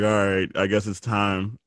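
slow, soft and resigned; weary mock resignation; resigned sigh. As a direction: drag yourself into it, slow. Resigned before walking in.

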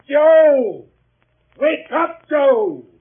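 loud, high call across the house; shouting a name. Acted. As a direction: yell to wake him up. Shouting for the sleeping boy.

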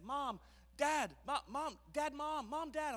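put-on high toddler voice mixing up Mom and Dad; imitating toddler. Father imitating his son calling Mom and Dad, high and eager. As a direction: call for a parent like a muddled two-year-old. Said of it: "he says".

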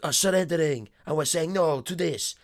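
put-on Guile in a Dutch accent. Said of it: "It's a good little Dutch accent".

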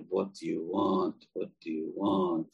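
very calm and slow. Retold or imitated. Grandfather facing the gunman, calm and slow. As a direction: answer a threat with quiet calm, slowly. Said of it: "Very calmly, very slowly".

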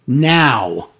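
slow, drawn-out mock promo line; lightly mocking imitation of her delivery; Charlotte impression. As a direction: drag it out like a confused promo. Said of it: "because she's like".

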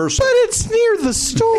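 high, drawn-out comic protest; exasperated insistence. Real, not acted. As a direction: plead the point, stretching it out. Arguing about the store.

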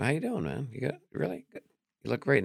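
bright, eager check-in with real interest; enthusiastic greeting. Shown as a demonstration. Comedian showing fans how to greet warmly. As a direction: sound genuinely glad to see them. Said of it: "don't throw it away".

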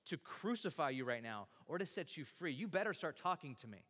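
acted-out bragging with menace; forceful, punched-out retold threats; boastful. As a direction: imitate a governor throwing his weight around.

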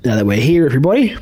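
put-on British announcer greeting; hammed-up British accent. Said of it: "with a British accent now".

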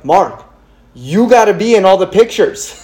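imitating someone urgently telling a friend; retold realization. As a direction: exclaim it as if it just dawned on you. Retold sudden realization, telling Mark.

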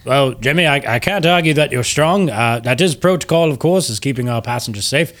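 lightly voiced, courteous ship's captain; a formal captain humoring his passenger; Captain Oso. Captain thanks a strong passenger, politely formal.

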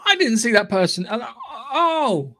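laughing surprised gasp; a delighted little surprise. Retold or imitated. Retold surprise at cast list.

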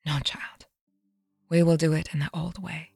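hushed. Acted. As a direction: hush the frightened girl gently. Aunt calms Uma before death.

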